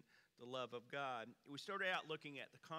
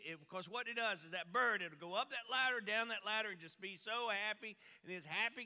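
pushy salesman pitch; 4 semitones higher, 5 dB louder than usual. Retold or imitated.

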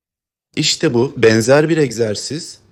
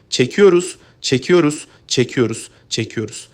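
fading coaching cue. Shown as a demonstration. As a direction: count the pull-in, fading away. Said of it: "coach cueing stomach pull-in".

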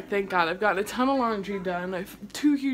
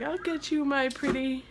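Wicked Witch voice; 4 semitones higher than usual. Retold or imitated. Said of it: "I was talking like the Wicked Witch".

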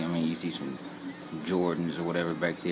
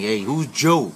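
raised, puzzled question voice; confused onlooker; 4 semitones higher, 5 dB louder, slower than usual. Retold or imitated. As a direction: ask it like a confused fan. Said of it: "some people might think".

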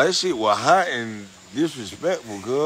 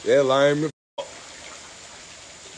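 stretched way out, slow and softer; slow drawn-out mock; 5 dB quieter, much slower than usual. Teasing his friend, a slow drawn-out softer jeer. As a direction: drag every word out slowly. Mocking the friend's weak move.

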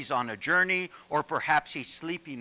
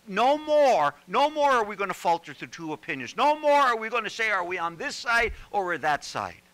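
loud, high preaching cry as Elijah; Elijah's bold declaration; 4 semitones higher, 5 dB louder than usual. Acted. Elijah calls out to the people, loud and defiant. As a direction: proclaim it like the prophet refusing to waver.

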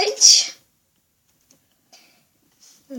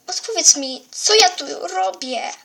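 frightened demand; 4 semitones higher, 5 dB louder than usual. Acted. Frightened girl demands answer.

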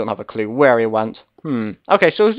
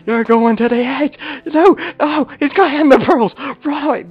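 excited yelling; 12 semitones higher than usual. Real, not acted. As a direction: cheer and yell as he escapes. Watching opponent near the edge.

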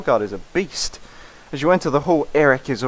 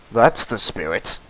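deepest possible voice, slow; extremely deep bass voice; 4 semitones lower, slower than usual. Acted. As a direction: push the voice as low as it goes. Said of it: "the deepest voice I can do".

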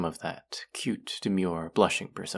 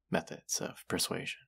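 whisper; 8 dB quieter than usual. Acted. Suggestive whisper, trailing off.

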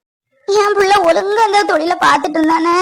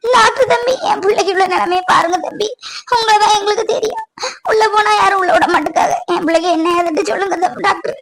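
weepy appeal to the doctor; tearful pleading. Acted. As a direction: beg for help through tears. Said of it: "அழாதீங்கம்மா". (அழுதபடி கெஞ்சும் குரல்)

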